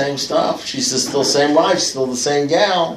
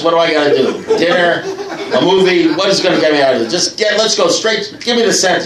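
rising comic pleading; 4 semitones higher, 3 dB louder than usual. Retold or imitated. Pleading guilty to his wife comically.

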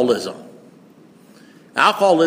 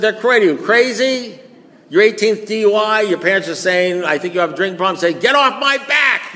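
mock yelling; 5 semitones higher than usual. Drinker yelling at parents about the drinking problem, mock angry. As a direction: rant back like a cornered drunk. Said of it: "You, like, yelled at the person".

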